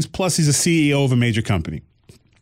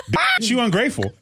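put-on sassy kid quote; 9 semitones higher than usual.

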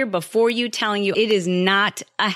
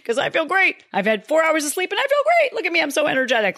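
mock superhuman brag; 8 semitones higher than usual. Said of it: "And I'm like".

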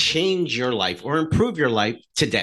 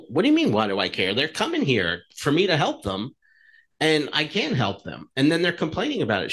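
mildly exasperated pushback, higher as it goes; retold frustration; 4 semitones higher than usual. Chiropractor answering the coach's challenge, retold frustration. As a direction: re-enact protesting to your coach, pitch climbing. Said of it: "I was really frustrated".

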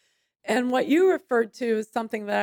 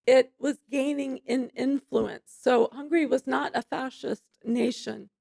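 losing her voice, rough and strained; strained, hoarse, voice giving out; 2 semitones higher than usual. Real, not acted. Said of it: "I'm losing my voice today".

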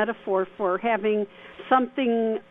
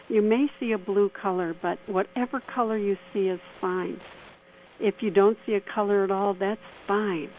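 guided meditation. Acted. Leads a mini meditation.

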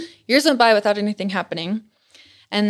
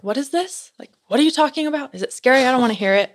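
a hint of a nervous mother, raised higher; dramatic mom; 5 semitones higher than usual. Mom at lunch refusing to hear about the ghost, mock fretful. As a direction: play mom's jittery protest, lightly. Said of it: "she's kinda dramatic".

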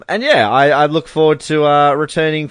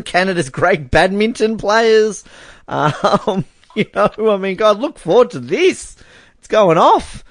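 mock hype; 10 semitones higher, slower than usual. Hyping up Canada's Commonwealth medals.

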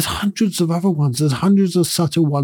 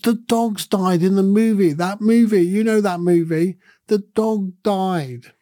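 imitated tearful sob; 5 semitones higher than usual. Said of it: "she was bawling her eyes out".

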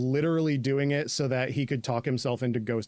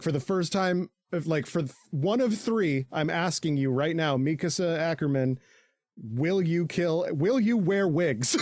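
solemn proposal; 3 semitones higher than usual. Retold or imitated. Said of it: "he's like".

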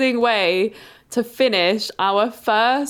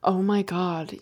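lightly put-on American accent, softer at the end; 3 semitones lower, 4 dB quieter than usual. Imagining what they said during the encounter, American accent. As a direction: slip into a mild American accent. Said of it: "you went American".

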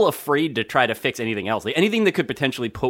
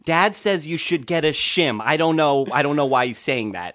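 mom relaying; 3 semitones higher than usual. Retold or imitated. Son imitating mom relaying dad's advice, baffled. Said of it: "my mom would be like".

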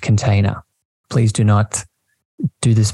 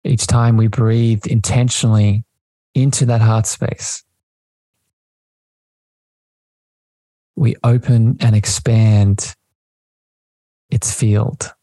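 slow meditation voice with long pauses; unhurried, spacious delivery, lingering on key words; guided meditation. Acted. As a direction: guide listeners slowly, phrase by phrase, into the breath.

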